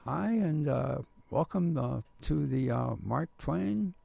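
a nervous novice's mock tour greeting; youthful tenor. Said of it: "I didn't have that deep voice".

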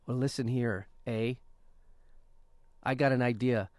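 put-on hammy Canadian accent with eh; mock undercover Canadian spy; Canadian spy impression. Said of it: "This is my impression of a Canadian spy".

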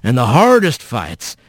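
low, measured fatherly counsel; folksy rough voice. Acted. Mysterious voice counsels fallen Rat, low and fatherly. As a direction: advise him low and steady, like an elder.

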